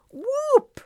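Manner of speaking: high, loud whoop of triumph; screamed whoop. A narrator's reading. Fairy escapes with the gem, screaming in joy. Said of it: "Ruby screamed".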